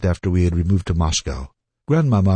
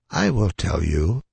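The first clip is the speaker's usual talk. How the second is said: sadly; 3 dB quieter than usual. Acted. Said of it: "said Grandmamma sadly".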